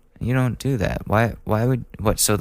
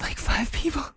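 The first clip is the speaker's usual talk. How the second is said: laughing; 5 dB quieter than usual. Real, not acted. Laughing at own blackout story.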